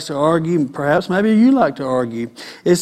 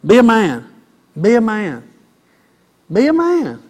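exhortation; 3 semitones higher than usual. Acted. Repeated exhortation.

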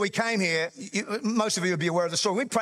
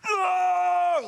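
sudden high yelp of "No!"; mock yell; 12 semitones higher, 3 dB louder than usual. Pastor reliving the ball flying at him, high loud yelp.

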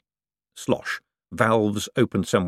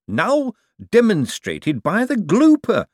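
breathless awe; 12 semitones higher, 6 dB louder, slower than usual. Acted. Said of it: "Hubert breathed".

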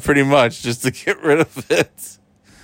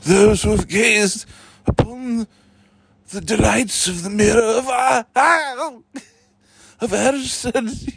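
Dumbledore voice; 5 semitones higher than usual. Pretend. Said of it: "Harry, it's the Dumbledore".

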